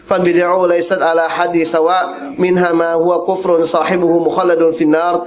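even, steady formal reading; level-pitched scholarly recital; reading Arabic text. Real, not acted. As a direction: read a religious text aloud in measured Arabic. Reads Arabic text aloud.

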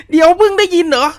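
ไม่อยากเชื่อ; incredulous. Real, not acted. Granny reacts too late.

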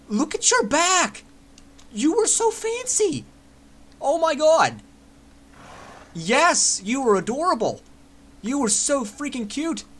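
high, slow cooing over something cute; cooing baby talk. Acted. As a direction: coo at it like at a puppy. Gushing at a character's old look.

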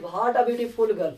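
drawn-out wondering exclamation; slow amazed reading. Shown as a demonstration. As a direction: stretch every word in awe. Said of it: "तो वही बात है".

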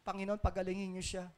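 soft mock prayer with no conviction; lifeless prayer. Preacher mimicking weak prayers for the sick, lifeless and soft. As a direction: pray limply, as if already giving up. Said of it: "Walang kabuhay-buhay ang mga panalangin".

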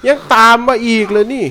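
high, loud frightened yell as it keeps chasing; panicked shout. Real, not acted. Gamer chased by a monster, yelling in panic. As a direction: shriek in real panic at the pursuer. Chased by enemy in horror game.

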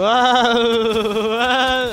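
high, loud laughing whoop; loud outburst. Real, not acted. Player getting lasered, loud laughing outburst. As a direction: let out a long, high laughing cry.

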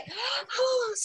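high, soft drawn-in breath; acted sleepy breath. Shown as a demonstration. Acts out sleepy before the word. (สูดหายใจแบบแกล้งง่วง)

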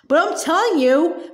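a light shout of protest; mild shout. Acted. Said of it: "Matilda shouted".

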